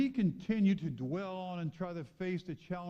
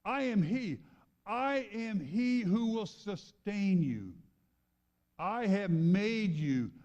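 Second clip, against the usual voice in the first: slow, loud, high preached verse; preaching at full force; 5 semitones higher, 4 dB louder, slower than usual. Acted. Preacher proclaiming God's promise to the congregation, full force. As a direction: proclaim each promise, slowing down.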